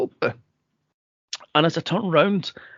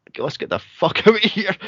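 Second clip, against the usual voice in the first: fast line with a laugh breaking through; laughing urgency; 4 semitones higher, faster than usual. Retold or imitated. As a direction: rush it out, laughing mid-phrase. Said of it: "and I'm like".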